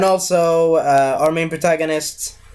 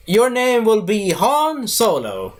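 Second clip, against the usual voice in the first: pompous officer; 5 semitones higher, slower than usual. Retold or imitated. Officer naming Han.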